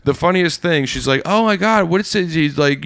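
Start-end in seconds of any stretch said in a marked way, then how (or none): 1.2-2.3 high-pitched mock drunk amazement; drunk girl. Drunk woman puzzles over a stranger's accent, high mock tipsy. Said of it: "she's super drunk".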